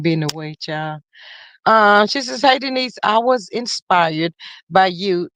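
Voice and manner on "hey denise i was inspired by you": "I was inspired by you" read slowly, word by word; slow careful reread. Shown as a demonstration. Rereading a viewer's comment slowly to get it right. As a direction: spell it out slowly the second time. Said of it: "wait a, wait a minute".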